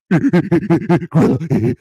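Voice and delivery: slow, high, stretched-out ape grunt of a name; half-hearted gorilla call; weak gorilla impression. Shown as a demonstration. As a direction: drag it out like a lazy gorilla. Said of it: "That's my weak gorilla impression".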